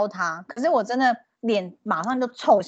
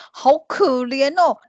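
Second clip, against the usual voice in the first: mock self-pity; 2 semitones higher, 4 dB louder, much slower than usual. Mock self-pity over price.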